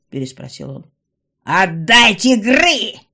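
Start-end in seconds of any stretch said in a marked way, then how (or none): 1.4-3.0 loud, very slow, stressing Гры; insist, drawing out «Гры»; demanding yell. A narrator's reading. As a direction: goblin mother demanding the child back. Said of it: "повторила гоблинша".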